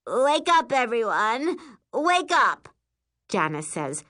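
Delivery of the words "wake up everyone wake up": loud, high wake-up yell; rousing wake-up call. A narrator's reading. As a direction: call out to rouse the whole bunk. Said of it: "storming through our bunk".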